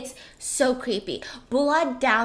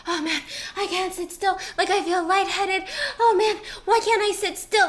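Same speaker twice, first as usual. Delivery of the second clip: imitating antsy husband; 7 semitones higher than usual. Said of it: "very dramatic".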